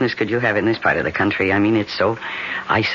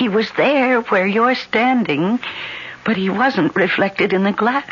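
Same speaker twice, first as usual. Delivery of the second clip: high, pleading fear; scared and begging to be believed; frightened; 5 semitones higher than usual. Acted. Minna pleads with John about the mirror, frightened.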